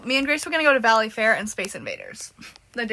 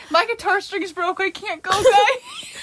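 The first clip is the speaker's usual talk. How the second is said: high whiny fake excuse; 7 semitones higher, 3 dB louder, slower than usual.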